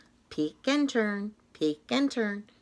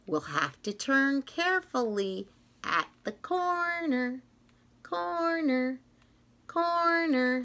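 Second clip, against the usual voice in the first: laughing; 4 semitones higher than usual. Acted. Laughing playful corner chant.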